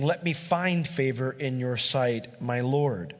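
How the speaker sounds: slowly, weighing "Let me find favor"; slow deliberate reading. Shown as a demonstration. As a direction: read it out slow to study it. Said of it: "King James is confusing".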